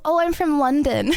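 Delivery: a hint of posh English accent. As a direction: lightly put on a proper English accent. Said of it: "trying to sound really English".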